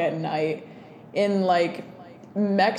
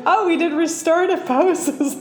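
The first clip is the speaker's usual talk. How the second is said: imitating partner; 10 semitones higher, 5 dB louder than usual. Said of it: "And you're like".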